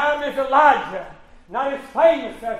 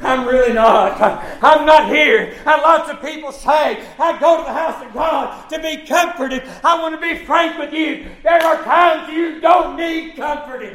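raised, emphatic pulpit delivery; forceful preaching; 6 semitones higher than usual. Real, not acted. Preacher telling people they don't always need comforting, forceful preaching. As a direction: drive it home to the congregation.

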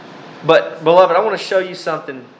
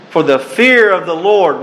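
fear stressed, raised and louder; proclaimed verse; 4 semitones higher, 5 dB louder than usual. Acted. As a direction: declare it to the crowd. Reads verse, then repeats it.

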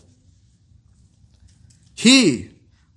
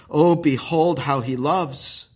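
tender exclamation; 4 semitones lower, slower than usual. Acted. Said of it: "we also say and exclaim".

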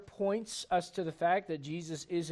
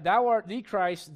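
slow and louder, "the" said as "thee"; stress on THE; 2 semitones higher, 6 dB louder, slower than usual. Shown as a demonstration. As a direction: declare it, leaning on "the". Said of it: "Underline the word".

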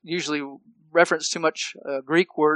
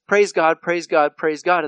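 mocking empty praise; 4 dB louder than usual. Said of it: "modern evangelicalism just says".

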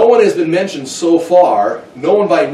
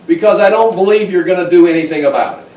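mock back-talk, raised in pitch and volume; mouthing back; 4 semitones higher, 4 dB louder than usual. Kid answering his parent, acted mouthing back. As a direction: push back like a defiant kid. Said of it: "mouthing back to his parents".

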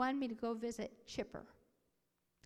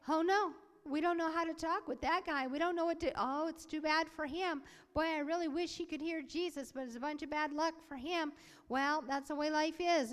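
higher-pitched bystanders' mock regret; mock helpless pity; 4 semitones higher, 3 dB louder than usual. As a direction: act out people shrugging off someone's bad luck. Imagined bystanders dismissing deaf man.

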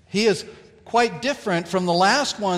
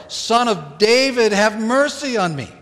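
higher, louder desperate plea; crying out louder; 5 semitones higher, 4 dB louder than usual. Retold or imitated. Bartimaeus crying to Jesus over the crowd, louder plea. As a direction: call out over the crowd, begging harder. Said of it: "He cried out all the more".

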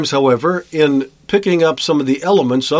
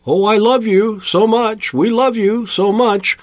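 mocking sugary love talk; 7 semitones higher than usual. Mocking hollow declarations of love.

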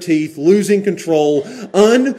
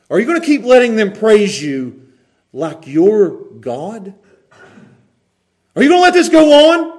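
restrained indignation. Acted. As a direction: challenge him, building to an outburst. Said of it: "I'm saying it in a calm way".

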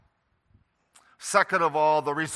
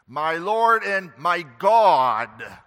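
louder, slow and drawn out; ringing slow confession; 7 dB louder, much slower than usual. Retold or imitated. Preacher voicing Thomas's awestruck confession, loud and slow. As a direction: proclaim it like Thomas seeing the risen Christ. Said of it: "Thomas's confession".

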